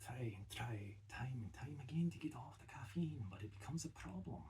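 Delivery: heavy Scottish accent, mock-serious; a Scot warning about caffeine, Scottish accent. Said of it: "working on my Scottish accent".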